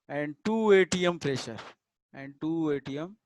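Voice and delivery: very slow, drawn out with long pauses; slow dictation. Real, not acted. Teacher dictating an exam question to students, slow dictation. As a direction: dictate it piece by piece, slowly.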